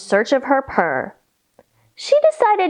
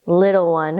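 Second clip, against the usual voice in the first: mother cat; 8 semitones lower than usual. Acted. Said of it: "her mother replied".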